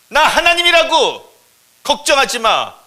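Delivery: high, loud, drawn-out insistence; insistent shout. Acted. God insisting on who he is to the bush, emphatic shout. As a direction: shout down their worry. God overrides the bush's worry.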